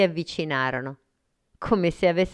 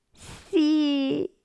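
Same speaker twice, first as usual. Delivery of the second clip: surprised happy yes; 12 semitones higher than usual. Acted. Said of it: "sorpresa e felice".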